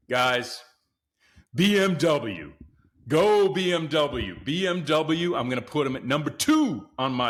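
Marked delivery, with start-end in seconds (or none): 1.5-5.4 cheering. Real, not acted. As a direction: chant the brand like a fan. Cheering for BMW.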